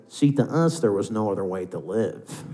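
mock gangster film narration; Ray Liotta Goodfellas voiceover. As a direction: narrate a dull job like a mobster's memoir. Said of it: "voiceover from Ray Liotta and Goodfellas".

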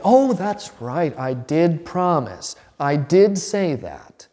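slow, gentle concession, stressing did; gentle admission. Retold or imitated. Father to son about the treat: slow, gentle admission. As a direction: own up kindly and slowly. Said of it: "No, you say".

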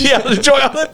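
high, singsong taunt; mocking farewell. Taunting the scammer as he leaves, high and mocking. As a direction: sneer it up high and sweet.

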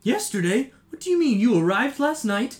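high, loud bewildered cries; confused shouting mother. Acted. Mother shouting back at the cleric questioning her.

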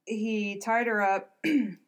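hoarse, strained voice going; hoarse throat, voice giving out; losing voice. Real, not acted. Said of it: "I'm losing my voice".

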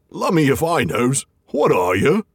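lightly voiced gruff troll; a hint of a puzzled troll. The trolls crowding round Bilbo, a lightly voiced puzzled troll. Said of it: "said the others".

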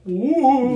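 spooky ooh. Retold or imitated. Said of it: "When I went".

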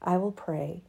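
expressive reading of her own essay; reading her piece. Acted. To her audience, reading her written piece aloud. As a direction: read it like spoken-word prose.

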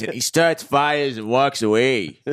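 slow, hammed-up Italian accent; mock Italian accent. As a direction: put on a comic Italian accent, drawn out. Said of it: "Our accent work is on point".

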